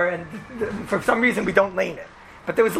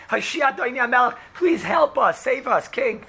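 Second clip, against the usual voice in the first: higher-pitched mock plea, not shouted; retold scream for help; 4 semitones higher than usual. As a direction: imitate a lady crying out to the king. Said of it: "a lady screams out".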